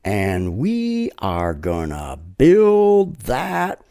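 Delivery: slow, drawn-out rally chant; lightly voiced president rousing a rally; Trump rally line. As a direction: stretch it out for a cheering crowd. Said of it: "He would say".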